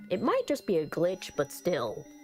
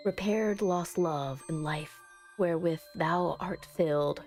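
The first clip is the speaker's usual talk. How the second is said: solemn incantation. Acted. Character praying to the angel in the ritual, solemn incantation.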